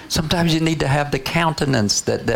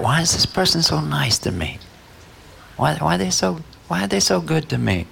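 slightly raised, puzzled questioning; mild bafflement; 4 semitones higher than usual. Acted. Husband puzzled by kindness, mildly baffled. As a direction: wonder aloud, lightly acted.

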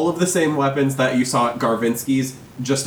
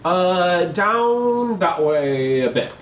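high Cockney shop lady; quick Cockney directions; Cockney accent; 6 semitones higher than usual. Acted. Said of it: "doing this Cockney accent".

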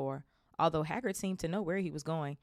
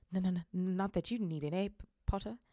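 nervous stammer; 3 semitones higher than usual. Acted. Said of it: "He laughed nervously".

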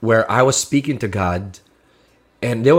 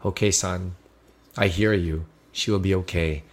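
gentle whisper; 5 semitones lower, 6 dB quieter than usual. Retold or imitated. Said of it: "he whispered".

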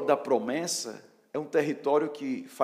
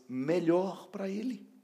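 MELHOR drawn out slowly, pitched up; scare quotes on MELHOR; 4 semitones higher, slower than usual. Acted. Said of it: "entre aspas".

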